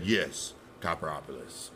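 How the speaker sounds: low insistent reply. Retold or imitated. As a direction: settle it quietly and low. Inner argument, reply.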